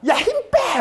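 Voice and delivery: very high-pitched mock scolding; scolding grandmother. Grandmother to tensed-up grandchild during the injection, mock scolding. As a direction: imitate a grandmother telling off a child. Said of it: "막 야단을 치는 거예요".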